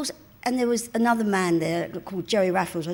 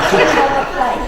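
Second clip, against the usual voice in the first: loud, high Cockney price call; hammed-up Cockney sales patter; Cockney prostitute; 5 semitones higher, 9 dB louder than usual. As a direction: tout it like a streetwalker. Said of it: "a Cockney p-, prostitute".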